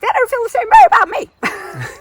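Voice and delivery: high, loud hurt realisation; hammed-up wounded disbelief; mock dawning dismay. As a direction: cry out in comic affronted shock. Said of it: "and then it was like".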